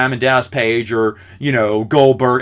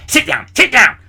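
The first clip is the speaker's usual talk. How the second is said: high, mock-flustered teacher; a lightly voiced flustered teacher; teacher shushing him; 11 semitones higher, 3 dB louder than usual. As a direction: imitate the teacher waving him to sit.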